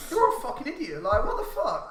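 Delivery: loud, high, half-laughing mock yell; retold yelling. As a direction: shout it through a laugh. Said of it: "I was just like".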